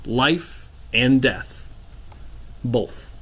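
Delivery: measured, portentous narration with long pauses; game master scene setting. Acted. Game master revealing a magical thing's secrets to players, measured and portentous. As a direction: unfold an ancient mystery phrase by phrase.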